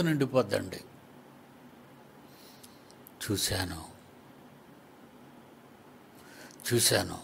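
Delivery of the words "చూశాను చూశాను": lower, hushed joyful sigh; softly overjoyed; tender joy. Acted. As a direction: savour the moment of seeing.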